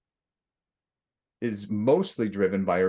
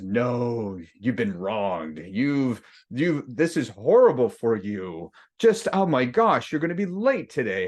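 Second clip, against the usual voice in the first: inner ego voice; 3 semitones higher than usual. Acted. Ego pitying the speaker over a flat tire, mock-dramatic whine. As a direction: play the ego fussing over how wronged you are. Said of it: "It says".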